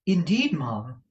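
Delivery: high little reply; timid. A narrator's reading. Kate replies to madam, timid. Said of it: "replied Kate timidly".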